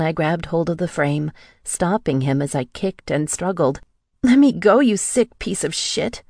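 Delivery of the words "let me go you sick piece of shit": high, loud furious scream. A narrator's reading. Woman fighting her captor, furious scream. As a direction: scream it with hate. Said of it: "I screamed".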